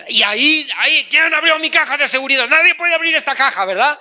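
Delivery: mock indignation. Husband finding his safe opened, mock outrage. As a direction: demand who touched it, rushed. Acted angry owner of safe.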